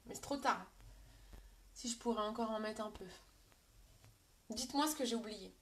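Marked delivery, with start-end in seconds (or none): none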